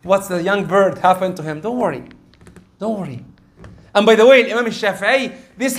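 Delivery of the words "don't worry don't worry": soothing. Retold or imitated. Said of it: "he started calming him down".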